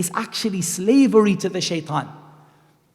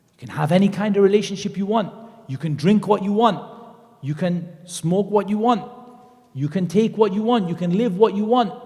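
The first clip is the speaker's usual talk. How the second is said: tempting Shaitan; 3 semitones higher than usual. Acted. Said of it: "Shaitan said".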